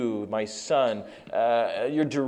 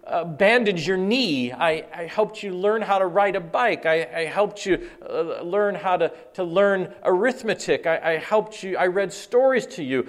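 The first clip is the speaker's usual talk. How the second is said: rising, growing louder to a near shout; fatherly build-up; 4 semitones higher, 3 dB louder than usual. Acted. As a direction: pour out a father's love, building. Preacher voicing father to son.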